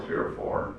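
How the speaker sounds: "three or four" whispered as the beat fades; fading whispered chant; whispered rhythm. Shown as a demonstration. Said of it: "the Shijo is three or four".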